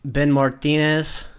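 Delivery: slow, drawn-out name in a put-on Latino accent; playful fake Latino accent; mock Latino accent. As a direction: announce it in a hammed Latino accent. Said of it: "what is with the accent?".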